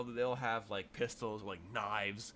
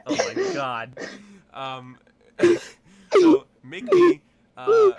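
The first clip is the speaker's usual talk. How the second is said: laughing; 21 dB louder, slower than usual. Real, not acted. GM laughing helplessly.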